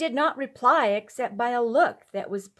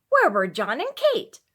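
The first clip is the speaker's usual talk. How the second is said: curt question; 4 semitones higher, 7 dB louder than usual. A narrator's reading. Wife questions in quarrel.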